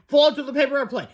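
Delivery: high, loud command; acted frantic instruction; urgent cry. A narrator's reading. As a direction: order it in a crisis. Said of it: "cried Fluffy".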